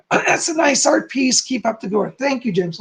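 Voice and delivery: hoarse, failing voice. Real, not acted. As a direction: voice going rough and hoarse. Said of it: "lose my voice here".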